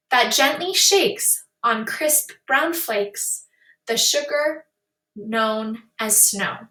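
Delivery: slow, measured reading of a rhyming poem. Acted. Teacher reads a rhyming poem to the class, slow and measured. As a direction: read the verse with a gentle, even lilt.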